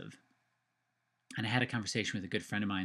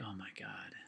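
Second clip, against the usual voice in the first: breathy near-whisper of shock, much softer; hushed oh my God; 3 semitones lower, 15 dB quieter than usual. Retold or imitated. Stunned whisper after hearing his mom died. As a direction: gasp it out under your breath, stunned.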